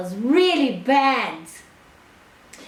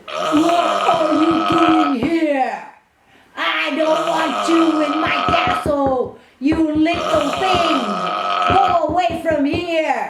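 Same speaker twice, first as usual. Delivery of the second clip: grumpy ogre. Acted. Ogre angry at intruder.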